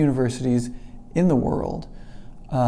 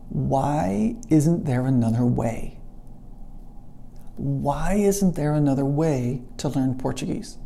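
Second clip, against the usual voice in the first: slow, drawn-out wondering plea; pleading wonder; slower than usual. Retold or imitated. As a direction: stretch the question out, searching for an answer. Retold desperate thought, alone and crying.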